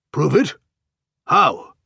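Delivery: loud, high desperate cry. Acted. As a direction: cry out in helpless alarm. Isaacstein desperate for a way out.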